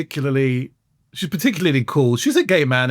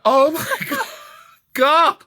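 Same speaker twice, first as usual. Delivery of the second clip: high laughing oh my God; shrieking at the image; half-laughing disbelief; laughing shock; 10 semitones higher, slower than usual. Retold or imitated. Reacting to grandmother's phrase.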